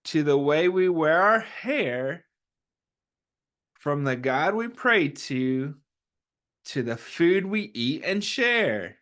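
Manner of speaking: gentle, slow picture-book read-aloud; reading to children. Acted. Teacher reads the picture book aloud to the class, gently. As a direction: read it like storytime for little ones.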